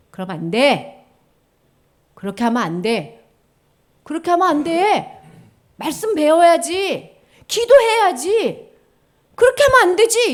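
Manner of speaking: insistent, escalating telling-off; nagging. Acted. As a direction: nag like a parent, drawing out the endings. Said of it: "잔소리로 느껴져".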